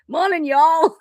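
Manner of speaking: high, playful Appalachian morning greeting; Appalachian accent. Retold or imitated. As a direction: drawl it in a hammed-up Appalachian accent. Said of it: "working on her Appalachian accent".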